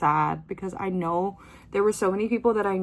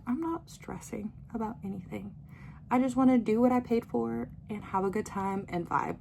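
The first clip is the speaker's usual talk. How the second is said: soft, unbothered self-quote; laid-back chill; 3 semitones higher, 6 dB quieter than usual. Retold or imitated. Concertgoer on her relaxed attitude to Atlanta, chill. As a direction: say it easy, with no stress at all. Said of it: "chill with Atlanta".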